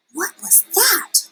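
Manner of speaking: put-on high startled baby bird; startled cry. Baby bird startled by a bat in the nest, high cry. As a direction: squeal the question up high. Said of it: "cried Flap".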